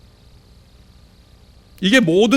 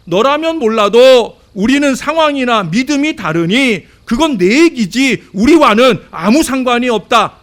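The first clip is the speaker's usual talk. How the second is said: doubting church member; 8 semitones higher, 7 dB louder than usual. Retold or imitated. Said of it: "하는 이 오해의 가능성".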